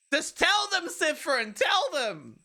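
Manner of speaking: high, loud pleading; urgent plea. Acted. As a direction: beg him to tell them. Pleading voice in nightmare.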